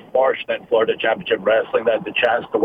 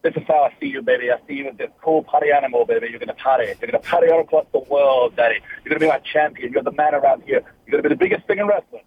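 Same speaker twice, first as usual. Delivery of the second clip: Dusty Rhodes impression; 4 semitones higher than usual. Wrestler imitating Dusty Rhodes pitching him a new character. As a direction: hype up the kid like Dusty, building to excited. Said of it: "We've all got a Dusty impression".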